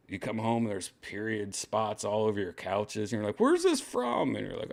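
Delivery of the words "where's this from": high-pitched acted question; mock questioning. Man finds spots on the couch, high mock questioning. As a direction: ask it high, as an imitated suspicious boyfriend.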